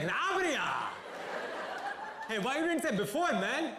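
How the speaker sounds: put-on high, loud South Indian accent; excited cop in South Indian accent. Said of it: "South Indian accent".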